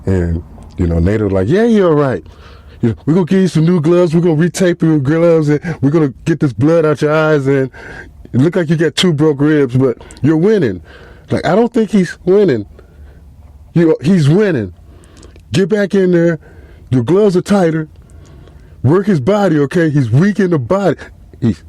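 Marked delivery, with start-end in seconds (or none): 1.5-10.8 hyped cornerman. Retold or imitated. Nato as cornerman. 11.5-21.0 pushy cornerman. Retold or imitated. Nato cornerman urging him on.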